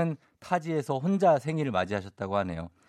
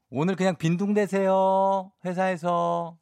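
higher, slow, lazy; laid-back cheerful wish; relaxed; 6 semitones higher, 3 dB louder than usual. Shown as a demonstration. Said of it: "요런 정도".

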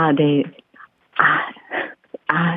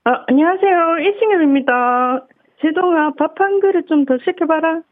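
higher, friendly baseball coach voice; Lee Seung-yeop voice; 9 semitones higher than usual. Acted. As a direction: pitch it up like the coach. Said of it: "이승엽 한번 보-, 들어보겠습니다".

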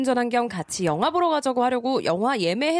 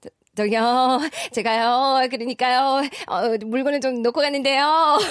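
Lee Jung-eun impression. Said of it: "이정은 배우".

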